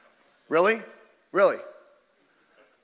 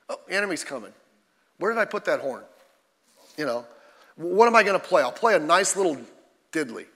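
half-hearted watchman. Pretend. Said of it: "No, there was a specific sound".

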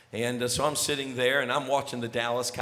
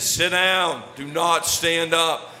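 firm order; 4 dB louder, slower than usual. Retold or imitated. Dad ordering naked son down.

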